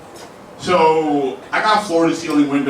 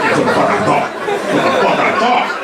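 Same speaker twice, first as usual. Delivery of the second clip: quiet thug voice; 8 semitones higher than usual. Retold or imitated. Tough guy to the driver, hushed thug taunt. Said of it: "I get real quiet, real thug".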